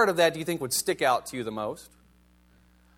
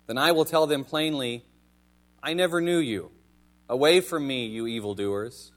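scripture reading. Acted. Preacher reads Jesus' warning about false prophets to congregation, solemn scripture reading. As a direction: read it out deliberately, pausing after each verse.

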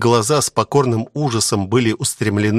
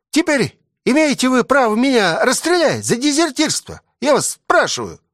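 soldier's grievance; 8 semitones higher than usual. A narrator's reading. Soldier confronts the commissar.

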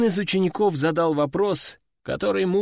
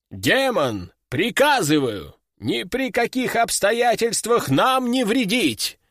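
commanding; 5 semitones higher than usual. Acted. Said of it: "обратился ко мне мессир".

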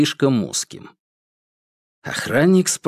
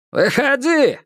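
shouting; 13 semitones higher, slower than usual. Acted. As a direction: yell it out to the hiding man. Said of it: "крикнул тот же охранник".

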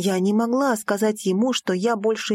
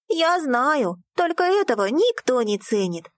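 a touch higher, with a little scoff; girl's line with a snort; 5 semitones higher than usual. Acted. Girl to heroine, lightly scoffing. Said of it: "хмыкнула".

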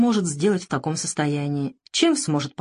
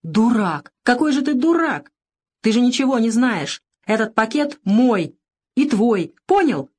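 louder, higher frantic cries; panicked outburst; 6 semitones higher, 4 dB louder than usual. A narrator's reading. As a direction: yell at him in despair.

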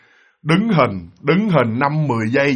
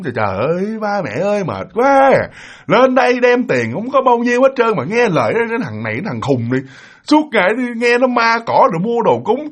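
whiny complaint, pitch swooping up; pouty grumbling; 4 semitones higher than usual. Retold or imitated. Big brother grumbles to parents about offerings, pouty whine. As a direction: imitate a put-upon brother griping. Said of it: "mấy ông chề món".

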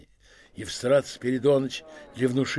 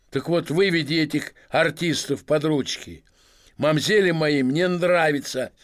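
put-on swaggering drunk merchant; 3 semitones higher, 3 dB louder than usual. Drunk merchant lectures steward.

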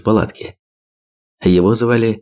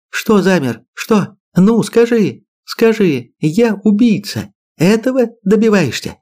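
bitter challenge; 12 semitones higher than usual. A narrator's reading. Wife challenging husband in a quarrel.

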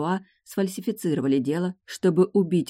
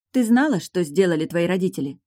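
loud, pointed question; 4 semitones higher, 5 dB louder than usual. Acted. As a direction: ask it loudly, confronting her. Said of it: "громко спросила Эйлин у Лой".

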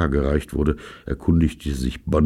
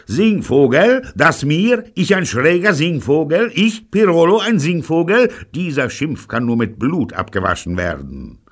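very high, loud, incredulous questions; gasping outrage; 12 semitones higher, 6 dB louder than usual. A narrator's reading. Insulted gangster protesting to his accuser, outraged. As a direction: escalate in scandalised disbelief, then pronounce vengeance. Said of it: "japste er".

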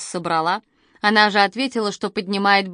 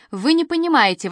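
exclaiming; 7 semitones higher than usual. A narrator's reading. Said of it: "воскликнула Катя".

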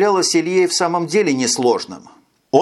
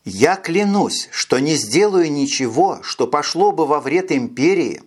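solemn. A narrator's reading. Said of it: "ставшим вдруг торжественным голосом".

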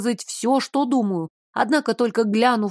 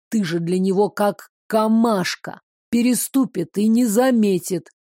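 wheezing creature voice. Acted. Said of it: "с придыханием и присвистыванием".

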